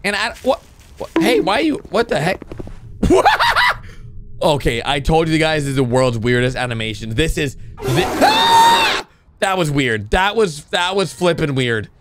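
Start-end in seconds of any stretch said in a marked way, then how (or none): 2.5-4.4 long squealing laugh; high-pitched laugh. Real, not acted. Reactor loses it at weird animation, squealing laugh. 8.1-9.1 very high-pitched shriek; startled scream. Real, not acted. Reactor startled by the weird animation, shrieking.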